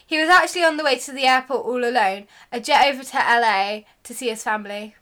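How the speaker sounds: fast gossip rattle. Pretend. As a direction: rattle off quickly. Rushed gossip delivery.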